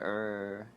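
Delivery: low imitated monster "err"; mock spooky growl. Reviewer showing the clown turning scary, mock low growl. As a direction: lightly growl like a cartoon monster. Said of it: "then he gets all spooky".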